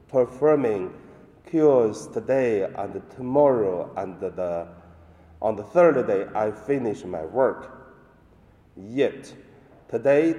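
solemn liturgical reading; Gospel reading. Acted. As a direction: proclaim the Gospel at Mass.

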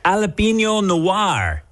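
put-on Spanish accent. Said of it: "when you try to do a Spanish accent".

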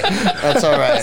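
slow repeat. Retold or imitated. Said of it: "they're about to kiss and they go".

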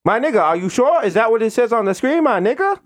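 high, doubtful mock Indian accent; rising, insistent questions in Indian accent; Indian call-center agent. Agent doubting caller's screen reading, high questioning Indian accent.

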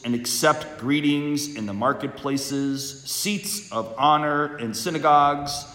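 solemn liturgical proclamation; Gospel reading. Acted.

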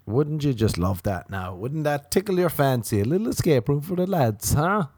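high, teasing sing-song offer; mock enticement. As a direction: needle them with a fake-keen invitation. Mocking the escape room invitation.

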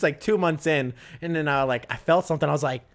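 usual speaking voice

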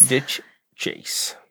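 whispered Ditch chase, soft and breathless. Pretend. Whispered repeat of the bit.

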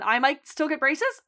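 hopeful rising question. Retold or imitated. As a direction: ask it with a little hope.

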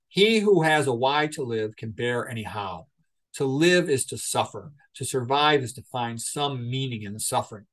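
lightly voiced Nietzsche, unhurried and grave; solemn quotation reading. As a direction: read it like a weighty pronouncement. Reads Nietzsche quotes in debate.

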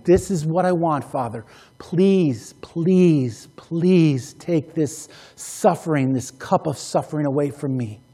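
hushed, earnest begging in prayer; pleading prayer. Retold or imitated. Acted prayer of Jesus pleading.

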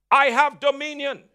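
bold, unapologetic declaration; confident preacher's declaration; with conviction. Shown as a demonstration. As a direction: proclaim it, no apology in it. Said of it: "you've got to say it with conviction".

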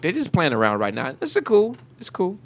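talking through numb lips. Real, not acted. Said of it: "My lips are numb".

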